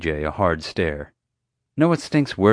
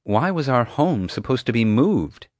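firm, pointed question; a touch of demanding; 5 semitones higher than usual. Acted. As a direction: press him for an answer. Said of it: "Dad demanded".

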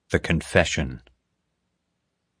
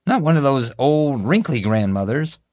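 high, insistent guard voice; defensive; 7 semitones higher than usual. Acted. Guard excusing himself to his boss, defensively. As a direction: protest in a raised pitch. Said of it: "Kevin said in his defense".

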